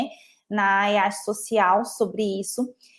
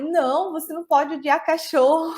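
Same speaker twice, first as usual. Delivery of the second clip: retold indignation; 6 semitones higher than usual. Student scolds an elderly woman over hating dogs, retold indignation. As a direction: act out being very cross, half amused. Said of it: "E eu fiquei muito brava".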